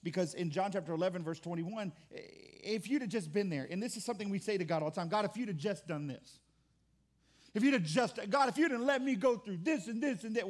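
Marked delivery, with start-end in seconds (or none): 5.1-10.5 whining. Retold or imitated. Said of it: "we whine".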